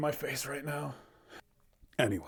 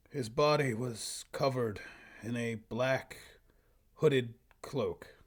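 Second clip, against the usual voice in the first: story narration. Acted. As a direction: read it out like a solemn fantasy tale. Reads own old story aloud.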